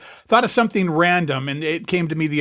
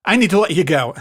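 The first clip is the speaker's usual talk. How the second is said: louder, curt dismissal; condescending brush-off; 3 semitones higher, 4 dB louder than usual. Shown as a demonstration. Friend on a call, demoing the dismissive phrasing, curt. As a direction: wave them off the call. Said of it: "Do you agree?".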